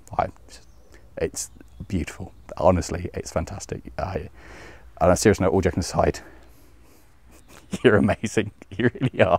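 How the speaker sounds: overcome, choked-up voice near crying. Thanking viewers for their support, choked up and close to tears. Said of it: "I genuinely feel like I need to cry".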